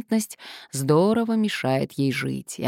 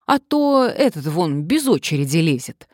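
grumbling blonde; 2 semitones higher, 5 dB louder than usual. A narrator's reading. Blonde points at queue-jumper.

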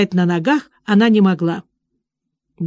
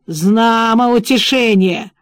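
grumbling; slower than usual. Acted. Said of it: "буркнул преступник".

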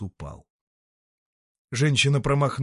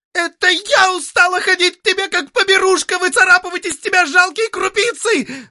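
shrieking much higher and louder; shouting; 10 dB louder than usual. Acted. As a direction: scream it at the old man. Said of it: "закричала Рихильда Миллер". (крик, очень громко и высоко)

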